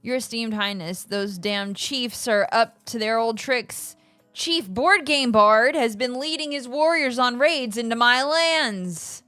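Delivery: a lightly voiced aggrieved noble; noble complaining. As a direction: read it like a wronged lord. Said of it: "Would you like to read for Kitty Cat?".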